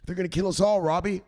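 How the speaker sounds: panicking Zelensky. Retold or imitated. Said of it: "Zelensky's freaking out".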